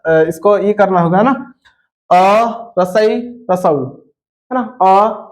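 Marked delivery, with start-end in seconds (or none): 2.8-3.8 रसई and रसऊ said short and quick; short vowels demo. Shown as a demonstration. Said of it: "बहुत कम समय लग रहा है". (ह्रस्व स्वर छोटा बोलकर)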